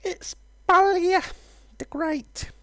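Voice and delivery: high, slow, proud dragon announcement; boastful dragon introducing himself; grand dragon voice. Acted. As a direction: announce yourself like a pompous dragon. Voicing the dragon character.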